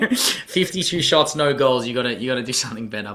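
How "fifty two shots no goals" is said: slow, laughing Fifty-two shots; laughing tease. Real, not acted.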